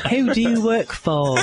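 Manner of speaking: high-pitched mock English interrogator; Jack Bauer. Podcast host playing interrogator for laughs, hammy English accent. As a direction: demand it in a put-on English accent. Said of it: "My English Jack Bauer voice".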